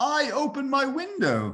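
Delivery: put-on very high, slow, swooping Brooklyn accent drawl. Quoting a line he said on one of his tapes, imitating a Brooklyn accent. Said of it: "he said in his Brooklyn accent".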